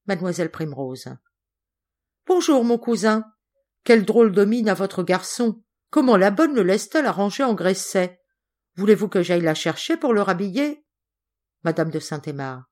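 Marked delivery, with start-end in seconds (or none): 2.3-10.8 a hint of a busybody cousin, lively; lightly voiced fussy cousin. Cousin finding fault with the boy's messy clothes, lightly voiced fussy. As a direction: lightly play a meddling relative.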